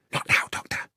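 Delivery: sharp unvoiced whisper. A narrator's reading. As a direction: hush him with a whisper. Lestrade hushing in hiding.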